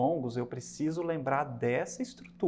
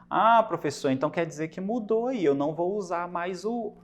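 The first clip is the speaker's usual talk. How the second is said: higher, questioning student voice; imitated puzzled student; 3 semitones higher, 5 dB louder than usual. Student asking the professor if the rule changed, lightly acted surprise.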